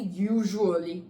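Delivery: "usually" said with a zh sound in the middle; correct pronunciation. Shown as a demonstration. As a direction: say "usually" as YOO-zhoo-uh-lee. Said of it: "That's how we pronounced it".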